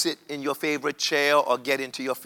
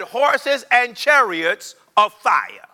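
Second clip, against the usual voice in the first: rising excitement; 5 semitones higher, slower than usual. Acted. Preacher builds climax.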